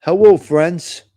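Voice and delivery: Hello, friends stretched out slowly in a light parody; lightly mocking, slowed greeting. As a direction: drag out his hello to mock it. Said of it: "that guy Giacomo".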